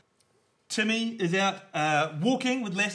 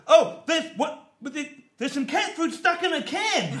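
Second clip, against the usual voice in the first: mock farmer; 11 semitones higher, 4 dB louder than usual. Farmer finds cat food.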